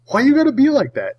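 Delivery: high-pitched mock whine; high whiny. Mock complaint.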